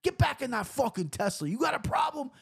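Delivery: high, hammed-up street yell; tough-guy shout. Teen confronting the Tesla driver, mock shouting. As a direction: bark at him like a tough kid.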